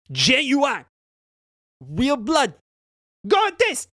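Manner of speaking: high, loud gleeful offer; hammed-up unhinged shopkeeper; creepy Myconid. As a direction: relish showing the bloody blade. Myconid shows bloody knife.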